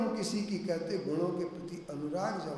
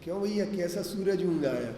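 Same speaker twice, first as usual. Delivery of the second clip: imitating a sister-in-law's teasing jibe; a lightly louder, needling question; mock taunting; 5 dB louder than usual. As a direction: put on a mild taunt. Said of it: "ताना मारती थी".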